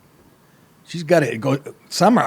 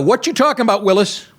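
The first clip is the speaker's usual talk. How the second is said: higher, punchy sitcom catchphrase; Arnold catchphrase; 7 semitones higher, faster than usual. Retold or imitated. Host reading the headline as the sitcom line, lightly voiced. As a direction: toss it out like the seventies kid. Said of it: "is the headline for you people in the seventies".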